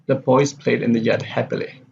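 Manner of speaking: level reading with a fall on "happily"; falling intonation. Shown as a demonstration. Teacher reads a statement example, falling on "happily". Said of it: "happily here is the falling intonation".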